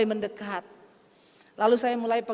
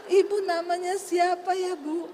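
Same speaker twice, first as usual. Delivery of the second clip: higher, slow, courteous imitation; changed, polite; 5 semitones higher, slower than usual. Formerly rude woman now asking the pastor's name, polite. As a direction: ask it sweetly and slowly. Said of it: "Berubah Saudara".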